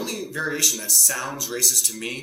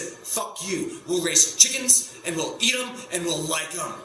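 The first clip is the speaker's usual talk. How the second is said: louder, higher defiant retort; raised defiant fuck-you; defiant shout; 4 semitones higher, 4 dB louder, slower than usual. Retold or imitated. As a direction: throw it back at them proudly. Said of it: "He said".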